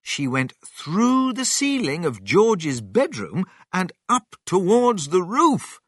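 ordinary delivery

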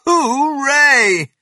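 loud, high, long cheer. A narrator's reading. Mister Cranky celebrates Grandma vanishing, cheering loudly. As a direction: let out a big drawn-out cheer.

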